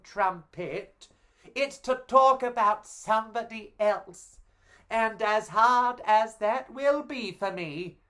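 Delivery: bubbly star Goldilocks greeting her adoring public; Goldilocks in character. Acted. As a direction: play the fairy tale celebrity lapping up her fans. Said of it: "I shall be playing Goldilocks herself. I will be in character".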